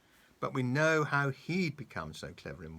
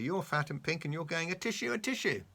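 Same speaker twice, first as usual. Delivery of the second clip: Mister Dizzy's voice; 6 semitones higher, 4 dB louder than usual. A narrator's reading. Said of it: "said Mister Dizzy".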